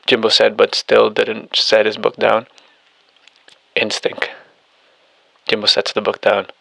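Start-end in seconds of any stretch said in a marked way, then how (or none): 3.8-4.3 breathy whispered one-word reply. Acted. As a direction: breathe it out, barely voiced.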